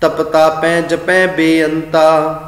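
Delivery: slow sung paath; gurbani recitation. Acted. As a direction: recite the verses slowly, chanting. Chants the verse. (ਹੌਲੀ ਗਾ ਕੇ ਪਾਠ)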